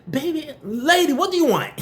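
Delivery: high, mocking passive-aggressive mom with a laugh; mimicking mom. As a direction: lightly play your mother, sugary but pointed, laughing through it. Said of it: "my mother is even passive-aggressive".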